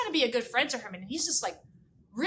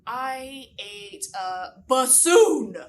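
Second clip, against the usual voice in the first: slow drawn-out worm voice; 4 dB louder, much slower than usual. Acted. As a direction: drag it out like a sheepish worm. Herman confesses, slow put-on voice.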